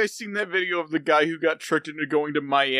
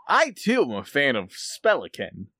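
mimicking S0. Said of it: "while doing his best impression of each of them".

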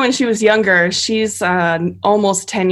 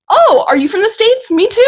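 much higher, excited, overjoyed to meet a fellow American; eager missionary; 13 semitones higher, 5 dB louder than usual. Retold or imitated. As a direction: squeal it like finding a long-lost friend. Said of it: "they were like".

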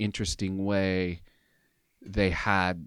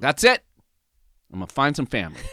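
louder, much higher declaration; husband proclaiming to wife Bethany, louder and higher; 4 semitones higher, 7 dB louder, faster than usual. Retold or imitated. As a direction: announce it like a vow. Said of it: "I proclaimed to Bethany".

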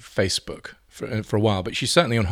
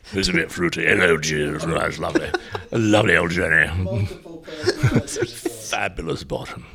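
lower, fruity gentleman voice; Piers McLeod voice; 3 semitones lower than usual. Retold or imitated. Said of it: "get Piers McLeod to phone".

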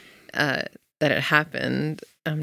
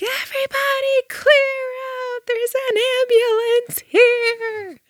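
put-on much higher, slow bossy kid voice; kid's announcement; 4 dB louder, slower than usual. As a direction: do the kid calling everyone out. Kid actor announcing, voiced high.

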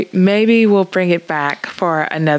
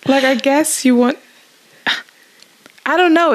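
laughing; 10 semitones higher than usual. Real, not acted. Laughing at donkey line.

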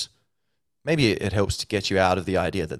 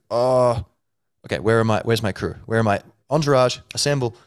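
louder, higher rallying cry; mock rallying call; 4 semitones higher, 5 dB louder than usual. You summoning your inner entourage, hammed-up shout. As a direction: call your crew together like a hero.

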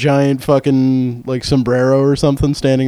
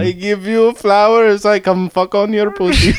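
proposition in a put-on Indian accent; lightly voiced creepy guru with an Indian accent; mock seduction; 5 semitones higher than usual. Mock Bikram propositioning a woman.

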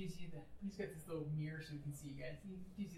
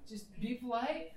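slow emphatic; 5 semitones higher, 5 dB louder, slower than usual. Acted. Pilot repeats advice slower.

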